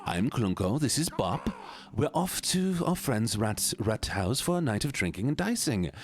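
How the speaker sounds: jaunty, lilting game-character voice; jovial gambler character. Acted. Gambling creature greets a lamb in the dungeon, jovial character voice. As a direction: play a chummy dice gambler with a swinging tune.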